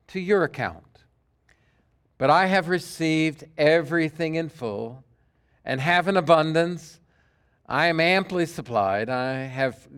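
measured reading of a Bible passage; scripture reading. Acted. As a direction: read the letter aloud to the congregation. Pastor reads scripture passage aloud.

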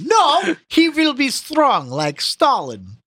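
put-on Russian accent. Joking Soviet voice.

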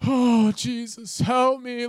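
slow, breathless mock plea; lightly hammed-up cry for help; mock desperate plea. Mimics coming battered from the fire.

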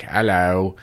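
mock Australian host hello; deadpan Australian newsreader greeting; Australian accent. Podcast host imitated in a mock Australian accent. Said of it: "That's my Australian accent".

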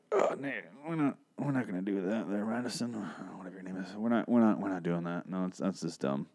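hint of a soft-spoken director; director's quiet correction. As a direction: quietly tell the actress no. Director voiced telling actress no.

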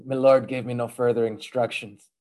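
low-pitched mock Irish fighter; Irish accent. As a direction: deliver the punchline in rough Irish. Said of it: "that's my Irish accent".

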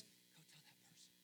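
soft unvoiced urging; whispered prompt. The Spirit nudging him, whispered. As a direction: whisper it like an inner nudge.

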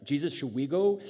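loud sarcastic griping, rising in pitch; hammed-up fed-up sarcasm, building. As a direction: scoff like a hangry follower who is over it. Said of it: "we should definitely hear this sarcastically".

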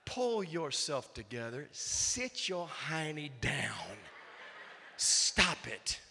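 soft, slow, firm rebuke; quiet scolding. Acted. Preacher telling congregation to calm down, soft slow rebuke. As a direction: settle them down quietly. Scolds after the loud outburst.

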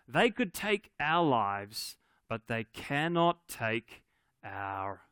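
slow, drawn-out battle speech, held back; a restrained go at a rousing speech, pausing between phrases; William Wallace. Acted. Preacher quoting Braveheart to church, slow mock speech. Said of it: "he gives them this speech".

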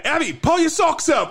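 high-pitched mock warning call; imitating a shouted heads-up, without real volume; retold call-out. Retold Tony calling out to Abby.

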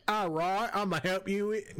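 put-on British accent, pitched a little up; brief, half-attempted British accent; hot British accent. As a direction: try a sultry British accent. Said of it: "But in a hot British accent".

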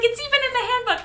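high, prim rule-citing voice; prim Serena. Retold or imitated. Co-host imitating Serena quoting her student handbook, prim and high. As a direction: play the primly scandalized schoolgirl.

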